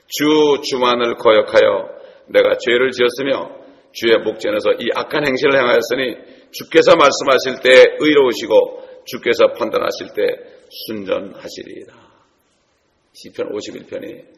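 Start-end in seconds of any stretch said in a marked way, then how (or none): 0.1-11.9 loud, slow fervent scripture reading; psalm recitation. Acted. David confessing his sin before God, fervent reading. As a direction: proclaim the repentance psalm. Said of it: "시편 오십일 편 사 절에 보면".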